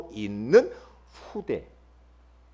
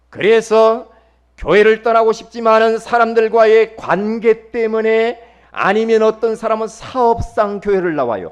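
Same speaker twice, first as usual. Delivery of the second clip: forceful raised sermon voice, louder; loud preaching; 5 semitones higher, 11 dB louder than usual. Real, not acted. (큰 소리로 설교)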